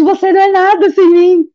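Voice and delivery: re-enacted scornful put-down; contemptuous outburst. Médico conta insulto de alguém. (desprezo encenado, voz elevada)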